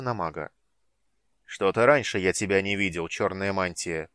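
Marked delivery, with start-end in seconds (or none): 1.4-4.1 loud, slow suspicious draconid drawl. Acted. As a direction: stretch it out, sizing him up. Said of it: "протянул драконид". (подозрительно протяжно)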